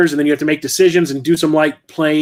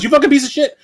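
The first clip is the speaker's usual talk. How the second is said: "You fucking piece of shit" yelled much higher in a mock cartoon voice; imitating the game voice; 10 semitones higher, faster than usual. Imitating the falling enemy's curse for viewers, high mock yell. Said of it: "She goes".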